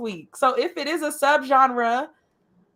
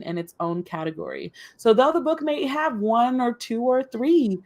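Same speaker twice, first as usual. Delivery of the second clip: radio voice; 3 semitones lower than usual. Acted. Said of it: "You, like, bust out the radio voice".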